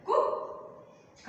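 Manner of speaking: కుక్క said very slowly, the క held long; teacher's slow demo of కుక్క; slow doubled consonant. Shown as a demonstration. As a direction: stretch కుక్క so the double క is heard. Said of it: "కా అనేది రెండు సార్లు పలుకుతున్నాం".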